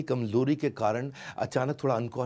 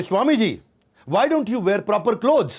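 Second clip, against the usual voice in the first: higher, louder, slow English; mocking Briton; 7 semitones higher, 6 dB louder, much slower than usual. Briton questions the swami's clothes, higher and mocking. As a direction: sneer it like a British gentleman.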